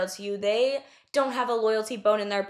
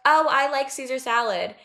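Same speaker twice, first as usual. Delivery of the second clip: a mildly voiced friend stating a preference; imitating the friend who likes the salad; casual friend quote; 3 semitones higher, 3 dB louder than usual. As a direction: toss off the salad opinion lightly. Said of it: "Someone would be like".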